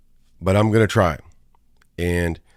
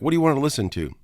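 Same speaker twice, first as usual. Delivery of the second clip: much higher-pitched driver's question; imitating the driver; 8 semitones higher, faster than usual. Uber driver asking his passenger about music, imitated in a higher voice. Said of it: "he's like".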